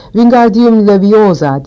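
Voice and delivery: slow, drawn-out "Wingardium Leviosa"; careful spell casting. A narrator's reading. Hermione demonstrating the spell, careful drawn-out incantation. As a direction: cast "Wingardium Leviosa" slowly, syllables stretched.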